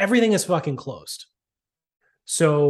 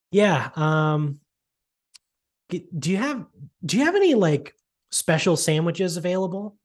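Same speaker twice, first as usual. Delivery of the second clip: pitched-up, clueless customer; mock customer voice; 3 semitones higher than usual. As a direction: ask like a clueless diner. Imitating the entitled customer.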